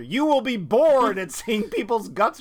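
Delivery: slow trailer announcer read; movie trailer voice. Retold or imitated. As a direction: announce it like a poster tagline, lightly. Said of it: "splashed across the movie poster".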